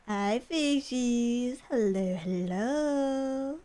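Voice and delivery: slow, drawn-out hello to little creatures; playful, slow cooing; coaxing greeting. Pretend. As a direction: stretch the words out to lure them in.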